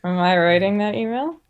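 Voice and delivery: talking without moving lips; ventriloquist-style, lips still; lips barely moving. Real, not acted. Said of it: "how you can speak without moving your lips".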